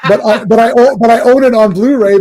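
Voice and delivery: high, loud words through laughter; laughing excitedly. Real, not acted. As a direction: giggle it out in disbelief. Laughing at owning the sequel.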